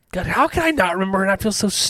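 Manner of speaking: tipsy, flustered and giggly. Real, not acted. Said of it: "'Cause we're drunk".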